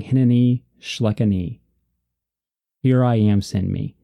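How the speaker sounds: firm, eager call of a prophet answering God; emphatic declaration. Retold or imitated. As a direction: say it with conviction, ready to go. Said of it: "That's very emphatic".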